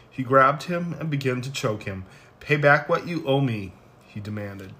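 steady, measured Bible reading; scripture reading. Acted. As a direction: read the passage aloud with care. Reads Matthew parable aloud.

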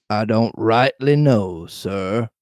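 slow, falling away on "sir"; cowed sailor Morgan. Acted. Morgan answering Long John's questioning, hesitant. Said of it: "answered Morgan".

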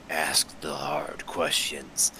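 slow, drawn-out mock gravity; mock slogan. Quoting the host's supposed mission, slow mock seriousness. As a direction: stretch it out like a self-important tagline.

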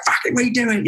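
high-pitched mock snap from a chef; exasperated, imitated kitchen telling-off; retold angry order. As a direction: order it redone, pitch leaping up. Acted chef snapping an order.

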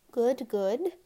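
loud, brisk-minded impatience; impatient. A narrator's reading. Hode moves the test along, impatiently. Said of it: "Hode said impatiently".

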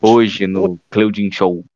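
slow, drawn-out host announcement; show announcer. Pretend. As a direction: announce it like a TV intro. Announcing his show name.

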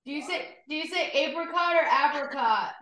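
"apricot" first with long A, then short A, high pitch; contrasting two pronunciations. Shown as a demonstration. Co-host asks someone off-mic, high-pitched contrasting apricots. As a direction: repeat the question, AY-pri-cot versus AP-ri-cot for "apricot". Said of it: "What does he say?".

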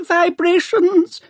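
put-on very high, slow whining old man, rising; a fussy old scholar's high whine, rising; Doctor Arkengarth whine. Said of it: "reedy voice of old Doctor Arkengarth whine".

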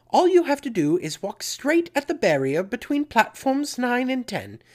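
put-on high, loud amateur British accent; terrible British accent. Preacher quoting Missus Weasley to listeners, in a bad British accent. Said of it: "Pardon my terrible British accent".

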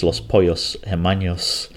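Los Pollos Hermanos in a hammy Spanish accent, rolled and lilting. Shown as a demonstration. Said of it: "in my best Spanish accent".

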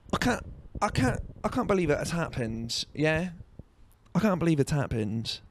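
high, soft put-on voice; mock disbelief. Comic reacts to his own story, high mock disbelief.

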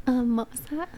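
unvoiced, confused question; mock puzzled whisper. Drive-through worker at the window, whispering in confusion. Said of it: "She's like".

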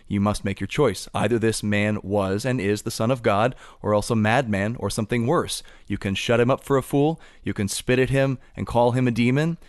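emphatic reading that builds to a final punch; reading aloud. Acted. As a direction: read the argument out, rising in force toward the end. Reads a passage aloud.

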